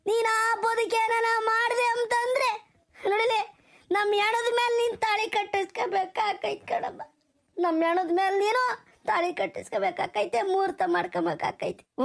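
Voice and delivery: anguished plea, voice breaking toward the end; tearful pleading. Acted. Father warning his daughter over her remarriage, tearful pleading. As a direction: plead through rising tears. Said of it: "ಯಾಕಲ್ಲ ಅಳ್ತೀಯ?".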